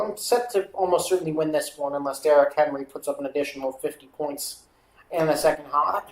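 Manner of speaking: lightly put-on Australian accent. Streamer checking fantasy scores, drifting into Australian accent. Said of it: "my accent is switching to Australian".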